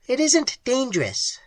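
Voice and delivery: calm, strange creature remark. A narrator's reading. Creature reassuring Ham, high clicking voice. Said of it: "remarked the thing on the ice".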